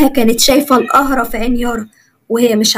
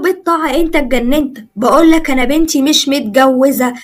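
angry father; 3 semitones higher than usual. Acted. Father shouting at the officer that his daughter is unmarried. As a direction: shout him down in disbelief.

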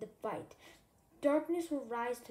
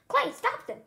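higher, louder call for Clay to step in; urgent plea; 12 semitones higher, 9 dB louder than usual. Acted. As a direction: shout to Clay for help. Pleading Clay to break fight.

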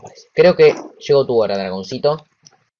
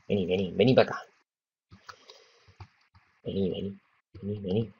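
coaxing call; 5 semitones lower, 12 dB quieter, faster than usual. Real, not acted. Coaxing dragon closer.

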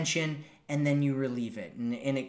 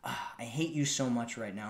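playful tease; 4 semitones lower, 7 dB quieter than usual. Shown as a demonstration. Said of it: "it's a tease".

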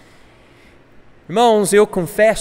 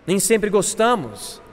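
slow "Nem sempre gostamos", settling down; slower repeated admission; 2 semitones higher than usual. Real, not acted. Preacher letting the admission sink in, slowly. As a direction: draw out "gostamos" with a falling end.

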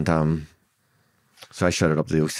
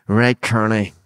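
retold guard's shout; 5 semitones higher, 6 dB louder, much slower than usual. Guard's hostile order to prisoner.

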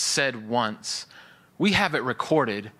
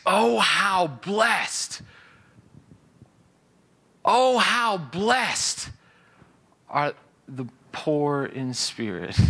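very slow, lifted proclaiming voice; joyful proclamation; 3 semitones higher, much slower than usual. Shown as a demonstration. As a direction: proclaim it as a glad declaration of what is. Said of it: "It's a declaration of what is".

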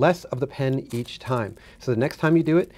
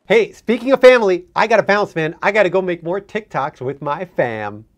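stoner bro voice; 5 semitones higher, 9 dB louder than usual. Acted. Stoner guest signing off.

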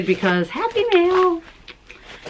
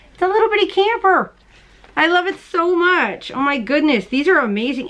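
much higher, gushing over the camper; excited gush; 7 semitones higher than usual. Real, not acted. Vlogger showing off a camper stitch marker, gushing. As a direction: squeal with delight over a gift. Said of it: "super excited about".

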